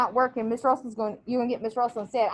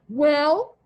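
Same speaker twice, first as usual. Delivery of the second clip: louder, sharp expectant Well; louder stern prompt; stern demand; 2 semitones higher, 7 dB louder than usual. Acted. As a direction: demand he speak up. Missus Amos demands an apology.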